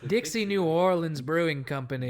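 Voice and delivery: slow, drawn-out commercial announcer read; hammed-up beer commercial voice. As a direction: sell the lager like a radio ad. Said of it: "I already committed to the voice".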